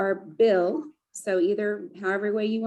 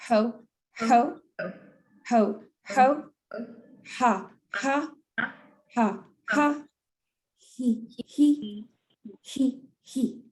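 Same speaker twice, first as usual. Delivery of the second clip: faster laugh sequence; 3 semitones higher, slower than usual. Shown as a demonstration. Leader drills the group, faster ho ha he laughs. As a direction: run through the three laughs faster. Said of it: "do it again a little bit faster".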